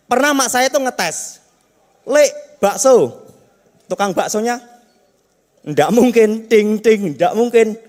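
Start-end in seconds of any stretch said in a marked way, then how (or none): 2.1-3.3 calling out to vendor. Retold or imitated. Mother calling the meatball seller. 5.7-7.8 mock vendor refusal.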